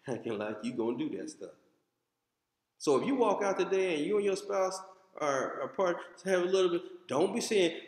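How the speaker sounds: ordinary talk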